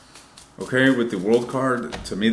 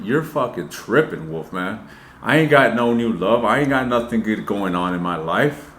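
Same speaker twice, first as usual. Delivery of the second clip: mock frustrated viewer; 4 dB louder than usual. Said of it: "you guys are in the dungeons of Mordor saying".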